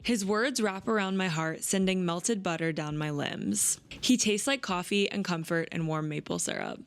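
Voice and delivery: gentle read-aloud of a romance passage. Acted. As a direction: read it like sharing a favorite page. Reads book excerpt aloud.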